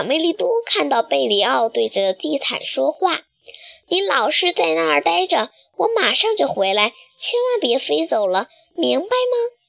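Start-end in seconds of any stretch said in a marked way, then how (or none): 3.9-9.6 bossy order to the carpet. Acted. Chick orders carpet to stay.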